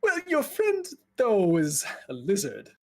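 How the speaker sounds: starts high and hesitant, then slows; lightly voiced nervous clerk; anxious mage. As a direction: object timidly and awkwardly. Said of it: "he's just very elevated, very anxious".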